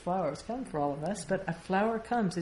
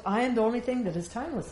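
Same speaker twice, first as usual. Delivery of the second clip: fast, a bit louder rush of realization; eager insight; 5 semitones higher, 4 dB louder, much faster than usual. Shown as a demonstration. Teacher showing the thought racing to understanding. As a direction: tumble it out as it dawns. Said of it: "that goes".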